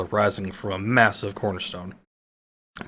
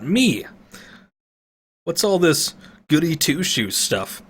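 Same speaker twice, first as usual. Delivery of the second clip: sneaky thief mocking the goody talk; defiant elf thief; 5 semitones higher than usual. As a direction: throw it back in his face. Voiced as a defiant thief.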